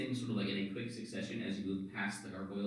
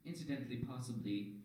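soft, measured otherworldly voice; mysterious orb voice; 3 semitones higher, 8 dB quieter than usual. Acted. Orb answering a charge of being mean, hushed eerie voice. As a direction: muse it quietly as an uncanny presence.

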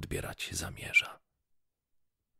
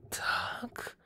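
astonished exclamation. A narrator's reading. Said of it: "zawołała kobieta".

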